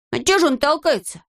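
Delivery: high, stubborn insisting. Acted. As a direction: dig in and repeat it obstinately. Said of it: "упрямо твердил Незнайка".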